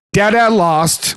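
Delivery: put-on slow, high little-kid voice; baby voice. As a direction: lightly imitate a toddler bragging. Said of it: "like, in his baby voice".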